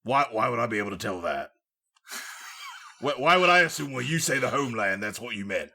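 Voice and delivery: bad British accent. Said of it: "this isn't a very good British accent".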